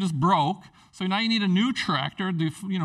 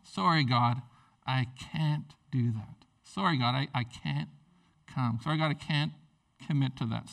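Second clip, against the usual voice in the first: mock sheepish excuse; 4 semitones lower than usual.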